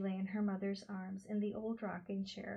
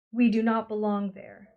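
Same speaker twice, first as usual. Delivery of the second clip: slow, distinct; 12 dB louder than usual. A narrator's reading. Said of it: "said slowly and distinctly".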